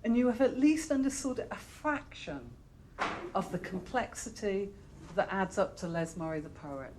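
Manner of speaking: measured read-aloud with pauses between phrases. Acted. Librarian reading an internet profile of the guest poet to an audience, measured read-aloud. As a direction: read it out phrase by phrase, leaning on key words.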